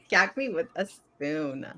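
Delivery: put-on slow drawled valley girl line. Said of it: "Oh my God, how old are you?".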